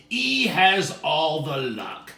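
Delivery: loud, slow wail; upset complaint. Acted. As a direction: whine loudly about unfairness. C sniffling, complaining.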